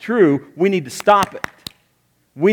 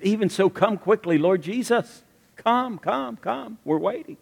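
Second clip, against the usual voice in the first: John's plea; 5 semitones higher than usual. Retold or imitated. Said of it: "He said".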